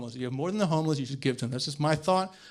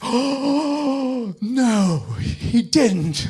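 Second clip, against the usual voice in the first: higher, louder, sassy outrage; mock outrage; 7 semitones higher, 6 dB louder, much slower than usual. Comic reacting to friend's audition story, mock outrage. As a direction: gasp it out, scandalised. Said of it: "It's like".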